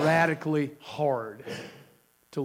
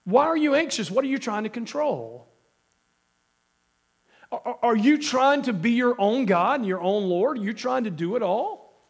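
preacher's voice cracking upward with a cold; high pitch; 4 semitones higher than usual. Real, not acted. Preacher voicing God to the church, pitched up high. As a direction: voice jumping up high while pleading. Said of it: "I don't want that high pitch".

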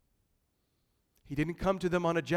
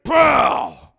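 sudden loud burst, much higher; shouted pow; 8 semitones higher, 12 dB louder than usual. Retold or imitated. Preacher mimics smashing through Lake Michigan waves, shouting. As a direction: blast it out like crashing through a wave. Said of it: "you're like".

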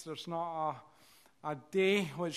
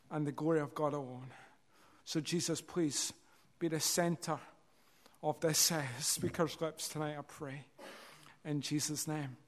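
prayer. Acted. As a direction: pray humbly before preaching. Preacher prays before sermon.

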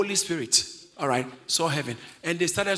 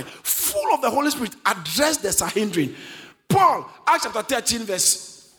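punchy preacher delivery, key words pitched up; emphatic preaching; 4 semitones higher, 4 dB louder than usual. Acted. Preaches with rising force.

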